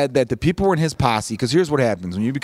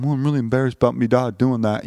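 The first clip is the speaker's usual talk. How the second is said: put-on English accent. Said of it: "I made the kid English just then".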